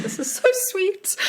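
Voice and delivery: very high, gushing squeal of delight. Retold or imitated. Author retelling her delight at a child wanting a signature, squealing high. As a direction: melt at the kid's request.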